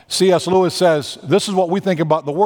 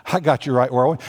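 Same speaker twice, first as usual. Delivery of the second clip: scheming thought; 4 semitones lower, 4 dB quieter than usual. Acted. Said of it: "Laban thinks".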